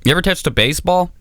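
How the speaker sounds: high, fast mock dad taunts; imitating angry dad. Dad taunting his son about sports, high mock interrogation. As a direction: jab the questions like a mocking father. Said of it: "my dad when he's like".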